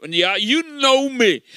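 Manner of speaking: retold, emphatic contradiction; insistent retort. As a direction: act out her refusing to believe it. Retold woman insisting he knows her.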